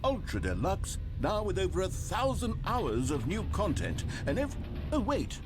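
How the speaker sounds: hammed-up announcer pitch; mock ad voice. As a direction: sell it like a cheesy trailer. Mock ad for the expansion.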